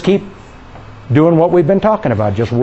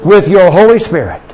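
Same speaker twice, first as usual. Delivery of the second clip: leading prayer. Real, not acted. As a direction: pray it out for them to echo. Leads congregation in prayer.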